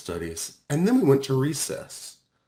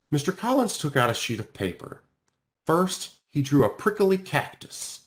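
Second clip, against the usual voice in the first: ordinary delivery, nothing marked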